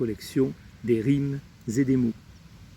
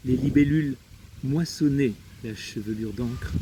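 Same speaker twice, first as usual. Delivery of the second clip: measured poem recital with long pauses; poetry reading. Acted. Reading a friend's poem to poetry lovers, measured recital. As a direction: recite the poem phrase by phrase, pausing between images. Je vais vous lire un texte.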